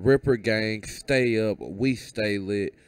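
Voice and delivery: loud energetic sign-off; hype outro. Real, not acted. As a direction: shout out the crew. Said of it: "channel sign-off hype".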